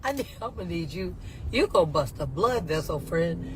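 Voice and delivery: calm her down with a chuckle; mock soothing. Calming the yelling guard.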